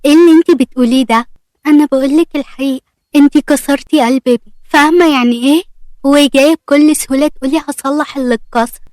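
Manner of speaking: sharp, accusing disbelief; disbelieving mother. Acted. Mother scolding Aseel over her son's broken heart, sharp disbelief. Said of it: "وهي مش مصدقة".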